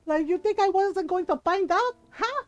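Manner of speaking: mock-indignant motherly interrogation; scolding Filipino mom. Mom marching lying sons home, lightly voiced indignant scolding. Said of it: "She's like".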